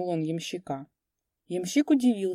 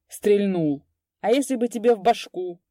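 reproachful; 3 semitones higher, 5 dB louder than usual. A narrator's reading. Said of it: "укоризненно заметил старшина".

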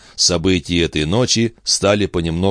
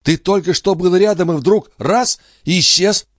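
angry scolding; 12 semitones higher than usual. Acted. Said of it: "сердито выговаривала".

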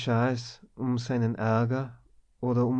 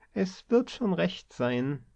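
put-on higher, slow grumble of an old colleague; grumbled reply; 7 semitones higher, slower than usual. A narrator's reading. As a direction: grumble it across the room, uninterested. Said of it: "brummelte es hinüber". (higher brummeln, langsam und desinteressiert)

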